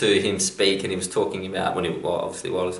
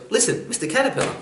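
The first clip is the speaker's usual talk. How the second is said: high, squeaky frog voice, much higher, full of wonder; a small frog gasping at all those legs; amazed frog; 13 semitones higher than usual. Acted. Frog marvelling at the caterpillar's hundred legs, very high and amazed.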